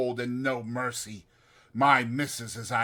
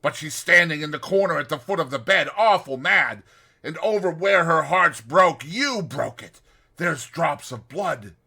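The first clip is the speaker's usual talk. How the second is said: terrified; 3 semitones higher, 5 dB louder than usual. Retold or imitated. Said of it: "shivering dreadful with the horrors".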